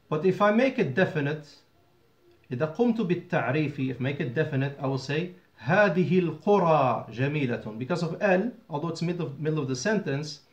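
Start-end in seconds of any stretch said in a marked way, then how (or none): 5.6-7.8 القرى with a long open "aa" before جميلة; no nunation. Shown as a demonstration. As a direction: say القرى as "al-quraa", dropping any n. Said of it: "L will prevent you from making".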